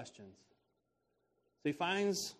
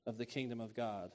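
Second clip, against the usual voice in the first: slow and deliberate; slower than usual. Shown as a demonstration. Preacher repeating Jesus' words slowly for his listeners. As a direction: proclaim said slowly, word by word. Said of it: "That's something that Jesus must do".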